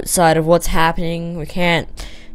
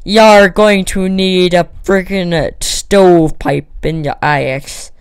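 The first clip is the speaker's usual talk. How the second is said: pirate voice; 2 semitones higher, 5 dB louder, slower than usual. Pretend. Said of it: "I sound like a pirate".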